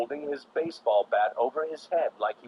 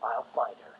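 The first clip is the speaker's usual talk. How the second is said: put-on eager young sidekick; 6 semitones higher, 5 dB quieter than usual. A narrator's reading. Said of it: "said Robin".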